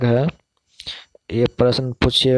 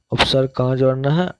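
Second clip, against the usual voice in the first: fast, rising question to the class; rapid teacher's check question; quick quiz question; much faster than usual. Shown as a demonstration.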